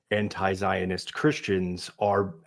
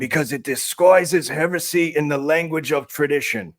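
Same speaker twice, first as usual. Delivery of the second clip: conservative rabbi voice; 2 semitones higher than usual. Retold or imitated. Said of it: "The other one was the conservative".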